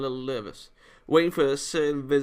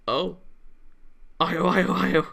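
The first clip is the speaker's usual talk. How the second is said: raised calling voice; 4 semitones higher, 4 dB louder, slower than usual. Acted. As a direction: call her name urgently.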